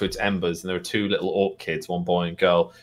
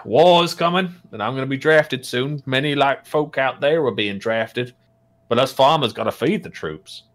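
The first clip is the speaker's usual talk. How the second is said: gruff orc farmer; 5 semitones higher, 3 dB louder than usual. Acted. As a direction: recount grim news as a farmer orc.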